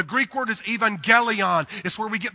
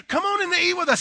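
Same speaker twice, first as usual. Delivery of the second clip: a lightly higher, eager invitation; inviting disciples; 11 semitones higher, 4 dB louder, faster than usual. Retold or imitated. Disciples inviting Jesus in, lightly higher and eager. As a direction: call him in warmly and eagerly. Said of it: "They said to Jesus".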